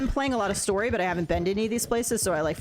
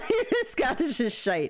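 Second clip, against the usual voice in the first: high, slow, laughing read-out; 5 semitones higher, slower than usual. Real, not acted. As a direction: read the tease through laughter. Reads chat's tease while laughing.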